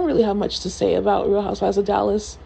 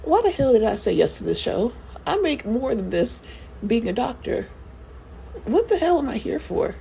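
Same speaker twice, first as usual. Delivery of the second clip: lightly voiced exasperated doctor, rising at the end; a hint of a fed-up housewife wondering why she signed on; Tiffany Moon impression; 2 semitones higher than usual. Podcaster mocks Tiffany regretting the show, mild exasperation. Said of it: "This is my impression of Tiffany Moon".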